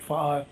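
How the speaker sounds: fa'a said as fah-ah with a glottal break; Polynesian word. Shown as a demonstration. Navigator listing the New Zealand canoe word, fah-ah. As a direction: give fa'a a catch between the two ahs. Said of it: "some places they call it".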